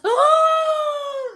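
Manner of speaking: sharp high delighted gasp. Real, not acted. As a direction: gasp at the surprise. Neighbor appears on live.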